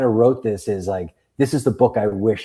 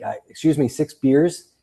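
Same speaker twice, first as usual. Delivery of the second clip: put-on higher, careful accent hiding the Boston; concealed Boston accent; 6 semitones higher, 3 dB louder than usual. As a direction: order with R's put in, masking Boston. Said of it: "conceal my Boston accent".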